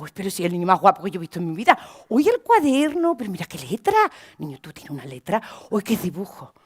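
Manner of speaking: put-on shower the child with warmth; a touch of doting praise; gushing praise. Speaker praises child warmly.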